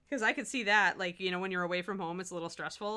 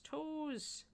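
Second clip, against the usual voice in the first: excited; 9 semitones higher, 4 dB quieter than usual. Real, not acted. Delighted at finished toes.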